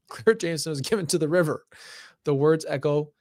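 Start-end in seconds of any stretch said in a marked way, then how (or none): 0.1-1.7 laughing. Real, not acted.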